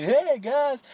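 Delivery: very high, overdone, pitch jumping up an octave. Exaggerating how the movie's Bruce Wayne talks: higher-octave Bruce Wayne voice. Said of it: "he goes into a higher octave".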